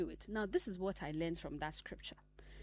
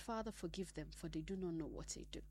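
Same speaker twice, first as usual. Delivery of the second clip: hushed quote of Jesus; 3 semitones lower, 8 dB quieter than usual. Retold or imitated. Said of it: "Do you know what he said".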